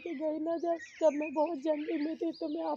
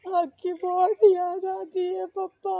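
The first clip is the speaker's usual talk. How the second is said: crying; 5 dB louder than usual. Real, not acted. Missing her father at his grave.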